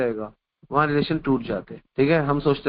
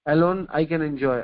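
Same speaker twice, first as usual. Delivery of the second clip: very slow, word by word; slow maxim; much slower than usual. Acted. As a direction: spell out the lesson slowly for the listeners.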